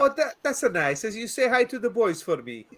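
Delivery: lightly Welsh lilt; a hint of a Welsh accent. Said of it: "That's a great Welsh accent".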